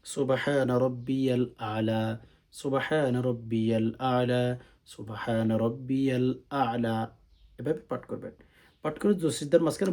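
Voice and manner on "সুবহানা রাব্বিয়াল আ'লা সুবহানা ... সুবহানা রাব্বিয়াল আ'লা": slow, one phrase at a time; never rush it into one breath; slowly. Shown as a demonstration. Teacher contrasting rushed village recitation, slow tasbih. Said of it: "আস্তে আস্তে".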